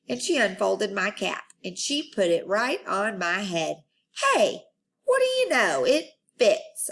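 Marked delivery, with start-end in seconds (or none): 4.3-6.9 high, loud surprised delight; delighted surprise. Acted. Junie B finding her cap fits, high and surprised. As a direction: discover it with a happy gasp.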